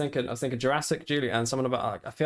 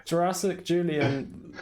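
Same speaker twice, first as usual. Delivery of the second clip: epic announcer; 5 semitones higher, slower than usual. Pretend. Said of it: "grand title announcing".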